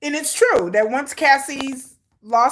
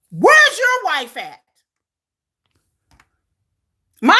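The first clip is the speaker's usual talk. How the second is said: angry rant. Real, not acted. Ranting at a commenter on her live.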